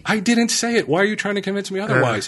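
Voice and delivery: high-pitched, hurried protest; exasperated denial. Retold or imitated. Reenacts denying to her that he said it, exasperated. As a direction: reenact the denial high and insistent, rushing the question. Acted quarrel with wife.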